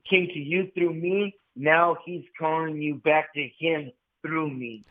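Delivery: slow, hushed, reverent words from Our Lady; slow reverent quote. Retold or imitated. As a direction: give the message slowly, as a holy revelation. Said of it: "would you say it again".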